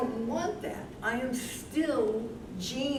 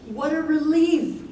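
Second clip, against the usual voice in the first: relieved exclamation; 4 semitones higher, 8 dB louder than usual. Acted. Learns she lacks dementia.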